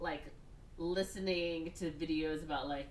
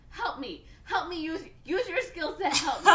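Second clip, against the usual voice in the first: imitated pleading; 11 semitones higher, 9 dB louder than usual. Brother begs sister for help.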